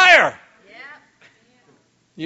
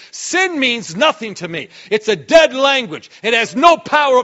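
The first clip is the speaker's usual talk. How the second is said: rising declaration; 4 dB louder than usual. Pretend. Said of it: "finally quiet yourself down to say".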